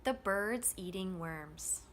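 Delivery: slow beats on BIRDS, EATING, WORMS, light THE; steady stressed rhythm. Shown as a demonstration. Teacher adding function words in drill, same steady rhythm. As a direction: tuck THE in before a stressed BIRDS. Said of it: "the rhythm is going to stay the same".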